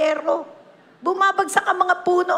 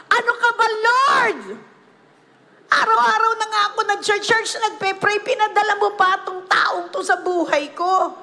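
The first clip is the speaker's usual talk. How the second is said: higher, exasperated griping; whiny complaint; 4 semitones higher than usual. Retold or imitated. Believer griping to the Lord about life's storms, mock exasperation. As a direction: complain to God like a fed-up churchgoer.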